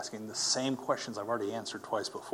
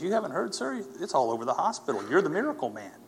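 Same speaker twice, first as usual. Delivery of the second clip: higher, louder retold amazement; excited revelation; 6 semitones higher, 4 dB louder than usual. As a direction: imitate an orderly amazed at the news. Retells orderly's excited revelation.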